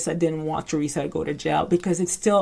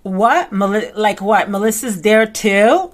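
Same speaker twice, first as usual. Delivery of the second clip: surprised Teresa; 3 semitones higher, 6 dB louder than usual. Retold or imitated. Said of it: "And then she says".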